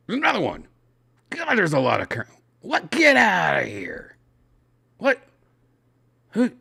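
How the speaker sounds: what, again? rising in disbelief; surprised. Real, not acted. Reading news, shocked another crash happened.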